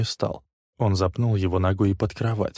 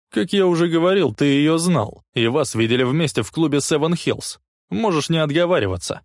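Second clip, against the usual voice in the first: insisting; 8 semitones higher, 5 dB louder than usual. A narrator's reading. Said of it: "настаивал Лесли".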